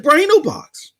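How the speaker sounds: hushed, sly reveal to his brother; whisper. Retold or imitated. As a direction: whisper it like a secret. Teasing brother about the cloud stream.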